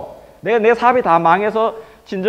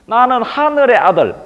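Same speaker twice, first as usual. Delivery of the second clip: slow, slightly raised proclaiming voice; grand declaration; 4 semitones higher, 3 dB louder, slower than usual. Acted. Hae Mosu reveals himself to Yuhwa, grand declaration. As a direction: announce it grandly, drawing the words out.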